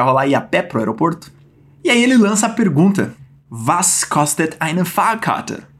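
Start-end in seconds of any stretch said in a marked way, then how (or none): 3.5-5.7 slow demo. Shown as a demonstration. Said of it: "teaching Peter's question".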